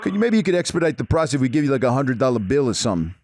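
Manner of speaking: put-on lightly done New York Italian accent; Italian-American accent. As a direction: play a Jersey wise guy on the phone. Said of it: "You should do a fucking Italian accent".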